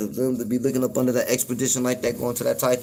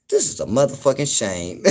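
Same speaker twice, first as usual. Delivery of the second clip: laughing disbelief. Retold or imitated. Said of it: "I'm like".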